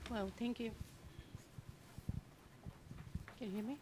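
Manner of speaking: hoarse, recovering from a virus; rough, scratchy voice after illness; raspy voice. Real, not acted. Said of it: "I'm sorry for the raspy voice".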